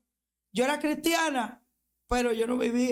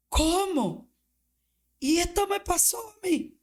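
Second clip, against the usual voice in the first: higher, tearful cry of disbelief; retold crying disbelief; 7 semitones higher than usual. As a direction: relive the moment she broke down in tears. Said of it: "yo lloré y yo dije".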